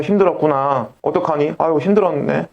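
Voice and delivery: gently sympathetic, lightly acted; 공감하는 말투. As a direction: offer simple comfort to someone having a hard time. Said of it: "그냥 공감해 주려고 노력만 해줘도". (공감하며 다독이는 말투)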